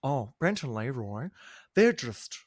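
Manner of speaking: a light put-on voice of a catty reality-show contestant; gently mock the rivals' meanness, lightly voiced; Babe impression. Podcaster mimics Babe sizing up her rivals, lightly voiced impression. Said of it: "Great Babe impression".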